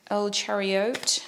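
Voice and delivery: slow, badly faked Spanish accent; hammy, unconvincing Spanish accent; terrible Spanish accent. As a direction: stretch it in a joke Spanish accent. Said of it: "It's a terrible Spanish accent".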